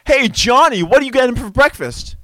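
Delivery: put-on loud, high commercial Boston accent; over-the-top Boston accent. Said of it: "the guy had a Boston accent".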